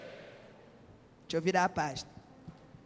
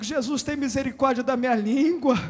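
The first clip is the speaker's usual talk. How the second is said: prayer for congregation to repeat; 6 dB louder than usual. Shown as a demonstration. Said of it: "Fala assim comigo".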